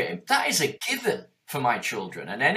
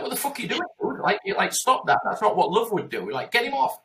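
outraged intervention; 7 semitones higher than usual. Retold or imitated. Bystander yelling at a man punching a puppy, high angry shout. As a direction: yell to stop him hurting it.

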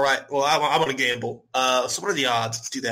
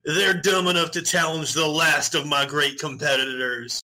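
fighting game announcer. Acted. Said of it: "announcer voice".

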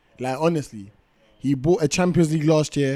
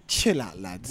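calm; 12 semitones lower, 9 dB quieter, slower than usual. Retold or imitated. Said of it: "kept everyone's head calm and said".

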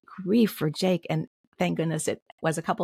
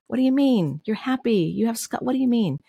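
high, louder mock disbelief, imitating people who don't get it; 7 semitones higher, 4 dB louder than usual. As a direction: toss it off like a baffled acquaintance. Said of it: "the things people wanted to say".

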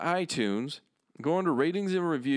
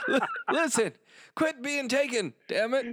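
raised, put-on tough-guy voice; mock tough guy; 9 semitones higher than usual. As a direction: lecture him like a gruff old cowboy.

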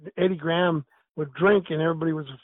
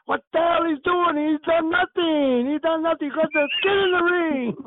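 outraged yell; 10 semitones higher than usual. Retold or imitated. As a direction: yell it in disbelief at the cheerleader. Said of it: "Dominic looks at me".

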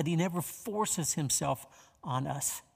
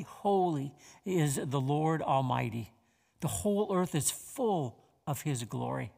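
scripture reading. Acted. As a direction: let each phrase of scripture land. Reads Isaiah six aloud.

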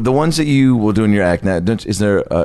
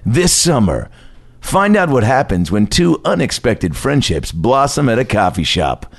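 movie trailer voice; slower than usual. Pretend. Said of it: "I'll set up the trailer".

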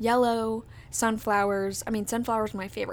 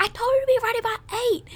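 high, fast, louder mock scolding; imitating scolding boyfriend; 13 semitones higher, 5 dB louder, much faster than usual. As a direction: rattle it off like a nagging boyfriend. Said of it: "And he was like".

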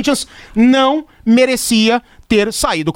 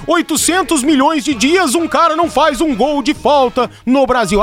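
exasperated complaint; 4 semitones higher than usual. Retold or imitated. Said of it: "a gente cansa de falar".

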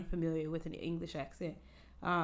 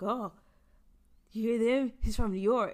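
excited mock onlooker, higher and louder; imitated delighted admiration; 4 semitones higher, 7 dB louder than usual. Locals marvel at a New Yorker's accent, imitated excitement. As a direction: act out people raving over an accent. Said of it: "loving that accent".

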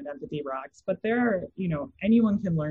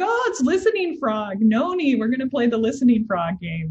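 put-on excited child; 7 semitones higher, 5 dB louder than usual. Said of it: "he was like".

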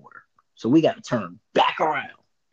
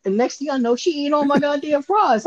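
exasperated; 14 semitones higher than usual. Real, not acted. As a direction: build into outraged disbelief. Exasperated storytelling, rising outrage.

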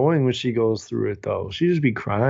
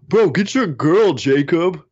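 bro voice; 4 semitones higher, 4 dB louder than usual. Retold or imitated. Romeo's line acted out.

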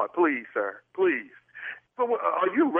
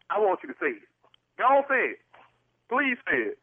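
high pleading; 5 semitones higher than usual. Acted. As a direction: lift it way up and beg. Pleading with church staff.

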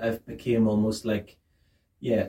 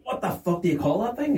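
higher-pitched, exasperated self-questioning; mock angry; 8 semitones higher than usual. Retelling forgetting the word chair, mock angry at oneself. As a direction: act livid with yourself over a lost word. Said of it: "I'm so angry".

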